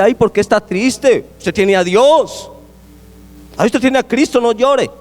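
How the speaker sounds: sing-song imitation of a churchgoer telling someone not to cry; mock pious comforter. Pastor mimics a churchgoer scolding a crying believer, mock sweet.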